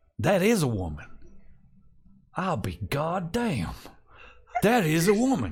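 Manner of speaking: stunned, swooping disbelief, astonished and confused. A game master's character kneels, looks at one companion, then another, stunned disbelief. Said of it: "he looks up at Dobbs and he goes".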